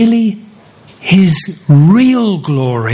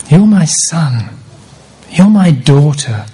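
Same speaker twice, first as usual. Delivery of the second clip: voice from heaven. Acted. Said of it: "this voice from heaven".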